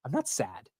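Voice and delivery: subdued denial. Retold or imitated. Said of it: "I was like".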